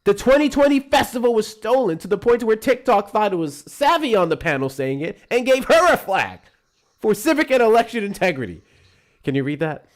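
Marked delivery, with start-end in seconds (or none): 0.0-8.6 loud, high, slow Trump bluster; booming Trump rally voice; Trump impression. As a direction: do Trump ranting big at a rally. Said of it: "you do the Trump impression better than me".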